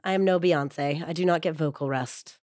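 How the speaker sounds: hoarse from a cold; husky, recovering from a cold. Real, not acted. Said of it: "for my husky voice this episode".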